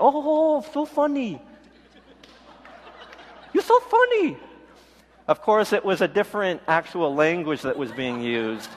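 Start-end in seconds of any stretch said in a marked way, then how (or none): 0.0-4.4 high put-on fake Asian accent. College boy answering the crew's teasing, fake Asian accent. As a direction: play along in a mock Asian accent. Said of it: "use my little fake Asian accent".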